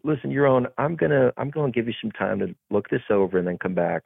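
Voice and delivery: imitated British director; British accent. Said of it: "with an awesome British accent".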